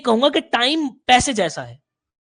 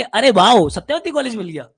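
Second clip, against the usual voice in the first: sarcastic. Shown as a demonstration. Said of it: "नहीं, इसको ऐसे बोलेंगे".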